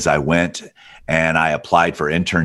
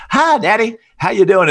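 put-on much higher, light child's voice; boy's voice before it broke; 4 dB louder than usual. Boy greeting his dad on the phone: high child voice. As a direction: squeak it like a kid before his voice dropped. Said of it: "my voice changed at about thirteen years old".

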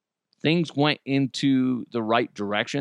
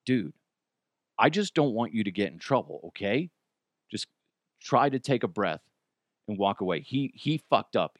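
calm reassuring; 3 semitones lower than usual. Retold or imitated. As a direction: talk him down gently. Calming angry neighbor quietly.

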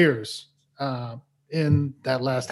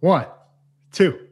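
loud, slow call to rally; 4 semitones higher, 6 dB louder, slower than usual. Shown as a demonstration. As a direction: drag it out for the team. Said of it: "on three".

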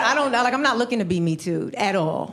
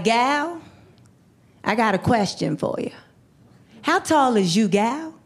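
put-on plantation Southern accent; 3 semitones higher than usual. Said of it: "I'm in close proximity to a plantation".

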